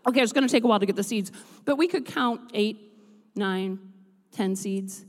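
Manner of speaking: talking through a mouthful of apple; chewing apple while talking; mouth full. Real, not acted. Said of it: "now I gotta talk with my mouth full".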